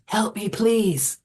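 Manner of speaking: high, slow, drawn-out spooky plea; mock ghostly whisper. A narrator's reading. Rebecca shows how she did the spirit whispering, mock ghostly plea. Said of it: "she whispers".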